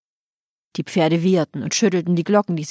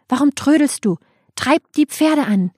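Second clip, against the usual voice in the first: higher, driving command; impatient order; 7 semitones higher, 3 dB louder than usual. Acted. Rama orders charioteer to drive the horses, impatient. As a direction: hurry the driver along. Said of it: "rief Rama".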